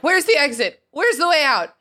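high, urgent mock cry; mock frantic Harry. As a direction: act out a hero hunting for a way out. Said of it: "And Harry's like".

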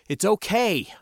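assuring. A narrator's reading. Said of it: "I assured them".

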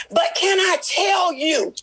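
rising, fervent call-and-response preaching. Acted. Pastor rousing the congregation, full preaching voice. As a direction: preach it out to the church, pressing each phrase.

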